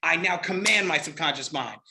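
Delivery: "command" given the main stress; firm emphasis landing on "command"; emphasized word. Shown as a demonstration. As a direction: lean on "command" as the key word. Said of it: "I would emphasize every different word".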